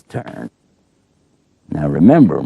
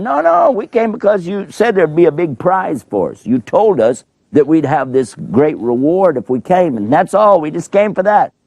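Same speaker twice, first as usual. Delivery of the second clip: much higher, whiny protesting voice; pleading magicians; 12 semitones higher than usual. Pretend. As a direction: beg the king to believe you. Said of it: "And they're going".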